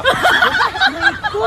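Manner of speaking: high, drawn-out laughing ouch; pained yelp. Acted. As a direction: cry out in pain, stretched long. Cries out in pain, laughing.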